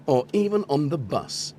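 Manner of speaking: lightly put-on advert announcer. Streamer finishes spoof advert after laughing, advert voice. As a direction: round off a mock sales pitch. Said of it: "My advert voice".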